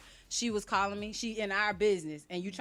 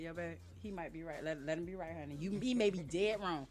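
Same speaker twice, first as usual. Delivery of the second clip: soothing husband; 4 semitones lower, 7 dB quieter than usual. Retold or imitated. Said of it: "I be tapping his leg".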